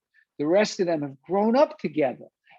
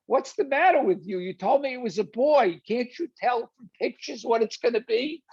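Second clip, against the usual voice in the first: a mild mock scolding, pitched higher; berating the staff; 4 semitones higher than usual. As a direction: playfully imitate a father telling off hospital staff. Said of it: "he berates them".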